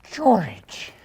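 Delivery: high, loud yelp of the name; excited shout. Acted. Greeting the caller on speakerphone.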